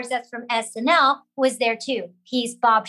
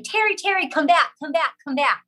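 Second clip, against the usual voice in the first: retold higher-pitched call after someone leaving; mock yelling; 4 semitones higher than usual. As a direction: call her back, imitating an urgent producer. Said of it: "the executive producer was yelling".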